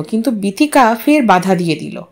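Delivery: ordinary delivery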